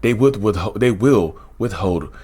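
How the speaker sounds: lightly mocking a by-the-book therapist host; mock proper presenter. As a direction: parody a dull clinical YouTuber. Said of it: "They don't sound like me".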